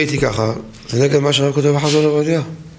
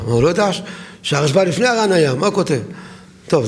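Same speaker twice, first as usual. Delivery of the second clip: normal talking voice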